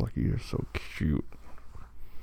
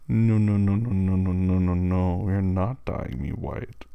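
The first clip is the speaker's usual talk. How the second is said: put-on bargaining with a toddler; 4 dB louder, slower than usual. Refusing a pleading partner.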